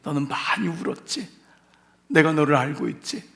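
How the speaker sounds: softened, knowing reassurance; tender understanding. Acted. Preacher speaks as Jesus comforting Mary, tender and understanding. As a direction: let the weeper feel known. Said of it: "내가 너의 눈물을 알고 있다는".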